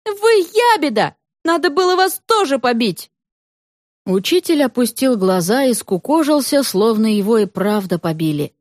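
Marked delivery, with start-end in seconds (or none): 0.0-3.1 put-on girl's accusing shout. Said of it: "крикнула Света".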